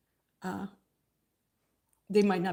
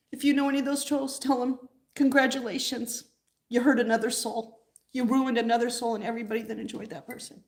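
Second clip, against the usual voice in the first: indignant; 3 semitones higher than usual. Real, not acted. Angry message to the trolls.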